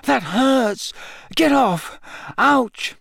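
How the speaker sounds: high yelps of complaint; pained protest. A narrator's reading. Harry poked in the side with a broomstick, yelping. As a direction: yelp as if being poked.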